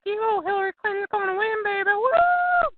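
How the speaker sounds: lightly voiced excited grandma; cheering grandma. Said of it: "My grandma came over, and she was like".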